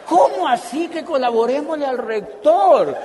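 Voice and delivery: más alto y lento, entre risas; repítelo incrédulo, riendo; asombro indignado. Retold or imitated. Indignado repite la frase. (pregunta indignada y más fuerte, riéndose)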